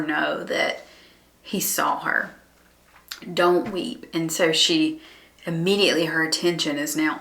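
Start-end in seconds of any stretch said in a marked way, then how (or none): 3.3-4.1 slower, gently voiced compassion; compassionate. Jesus speaking to a weeping mother, compassionate. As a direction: say it to comfort the mourner. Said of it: "out of his compassion".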